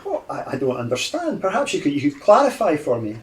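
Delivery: hesitant, lightly voiced old gentleman; confused old man. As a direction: politely play the baffled old man. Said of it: "go into lost old man".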